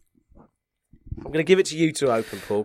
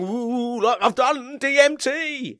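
cartoon face voice; 9 semitones higher, much slower than usual. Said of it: "his eyes are going".

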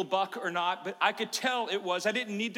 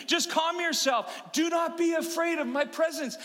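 booming angel; 8 semitones higher than usual. Retold or imitated. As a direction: proclaim it from on high. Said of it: "This angel says to me".

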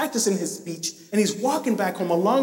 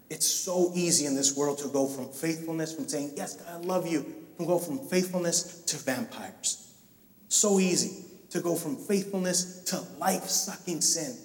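hushed preaching; 3 semitones lower, 6 dB quieter than usual. Acted. Soft intense preaching passage.

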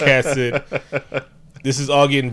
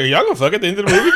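fast, higher yelled question; mock shout; 6 semitones higher, much faster than usual. Yelling at the movie characters, fast mock shout. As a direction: blurt it out fast like yelling at the screen. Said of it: "I was like".

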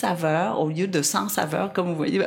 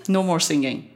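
consigne ferme, sans hausser le ton; ordre posé. Retold or imitated. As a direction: poser calmement une interdiction. Ordre donné à Marco. (ordre ferme et posé)

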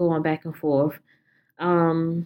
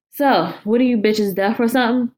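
louder, higher sneer; mock them as deaf; sneering intruder; 4 semitones higher, 3 dB louder than usual. Intruder sneering at the women, louder and mocking.

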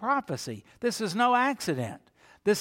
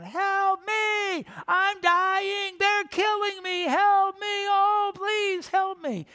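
high-pitched, drawn-out mock cries for help; hammed-up wailing yell, held high; imitated patient yelling; 3 dB louder, slower than usual. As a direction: wail like a melodramatic hospital patient. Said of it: "Nobody yells like that when they die".

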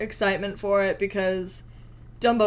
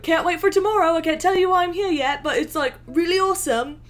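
high, louder excited gush; 7 semitones higher, 4 dB louder than usual. Retold or imitated. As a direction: gush like a giddy fan. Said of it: "I'm like".

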